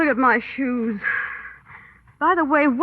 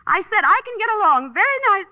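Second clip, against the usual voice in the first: higher, huffy insistence; insistent repeat; 5 semitones higher than usual. Acted. Woman repeating herself to a silent companion, insistent and raised. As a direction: repeat it pointedly to someone not listening.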